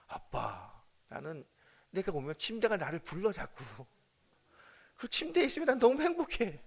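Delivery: daughter's dreamy voice. Retold or imitated. Daughter telling her dad how happy the bed makes her. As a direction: gush about the bed like a happy child.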